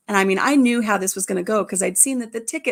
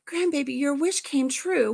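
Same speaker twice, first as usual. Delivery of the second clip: higher, slowed-down happy reveal; delighted announcement; 5 semitones higher than usual. Retold or imitated. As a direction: draw out the good news. Grandmother announces wish granted.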